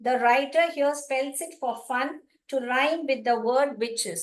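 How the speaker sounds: reading the note aloud very slowly; measured classroom read-aloud; slow textbook reading. Acted. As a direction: read each word out for the class.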